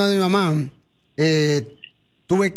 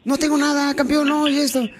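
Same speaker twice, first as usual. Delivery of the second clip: higher, breezy fake-cheerful brush-off; faking being happy; 7 semitones higher than usual. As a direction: act fine while hiding the pain. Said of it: "Y yo haciéndola de muy feliz".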